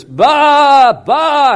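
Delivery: high bleating baa; sheep bleat. Retold or imitated. Preacher imitating ewes calling in the storm, high bleat. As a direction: bleat like a ewe calling her lamb. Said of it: "the mothers".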